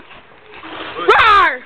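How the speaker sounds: loud playful monster roar; huge fiery dragon roar. Pretend. Playful roar before backflip.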